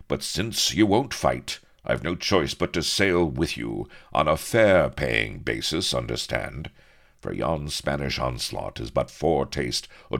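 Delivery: loud, high, urgent declaration; stout-hearted hero announcing his duty; earnest officer hero. A narrator's reading. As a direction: deliver it as an emphatic, upright officer.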